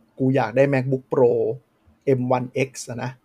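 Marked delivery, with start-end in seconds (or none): 0.1-1.3 slow, lightly voiced fanboy wish; hardcore Mac fan. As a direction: drag out the fan's craving, only a hint of a voice. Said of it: "hardcore กลุ่มหนึ่งที่แบบ".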